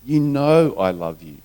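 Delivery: a touch of hurt in the voice. Acted. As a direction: plead it gently, mildly wounded. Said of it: "in a voice of hurt".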